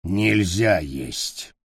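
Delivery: very slow dismayed goblin, кровь dragged out; grumbling goblin, disappointed; slow, heavy creature voice. Acted. Goblin voice in story.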